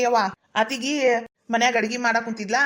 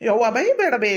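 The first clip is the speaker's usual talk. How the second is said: put-on pleading mama's-boy voice; unmanly whine; 3 dB louder than usual. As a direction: plead meekly with a scolding mother. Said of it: "ಎಣ್ಣೆ ಬಾಡ್ಯಂಗ್ ಮಾತಾಡ್ತಿ".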